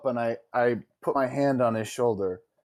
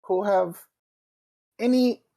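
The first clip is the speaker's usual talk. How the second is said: a lightly raised, measured noble tone; different tone; 4 semitones higher than usual. Acted. Player comforting the pouty NPC, lightly raised gentle tone. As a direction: speak up higher and carefully, offering kindness. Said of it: "in a different tone".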